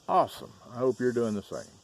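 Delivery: high, loud upbeat answer; enthusiastic reply. Retold or imitated. Answering a stranger's greeting, high and enthusiastic. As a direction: beam out the reply.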